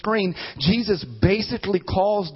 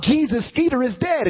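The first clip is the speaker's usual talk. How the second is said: a hammed-up higher cry to Jesus; mock cry out; 7 semitones higher, 3 dB louder than usual. Dog owner crying out to Jesus, mock wail. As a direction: pretend to wail over the dead dog. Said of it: "you cry out".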